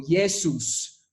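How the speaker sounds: Jesús drawn out slowly to show its tonic syllable; slow, deliberate Jesús for learners; stressed syllable demo. Shown as a demonstration. Teacher shows the Greek name, slow stressed Jesús. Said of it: "como la sílaba tónica".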